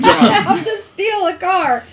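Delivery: slow, high, laughing put-on voice; drawn-out giggly crook voice; laughing mock criminal. Mocking Bert, laughing.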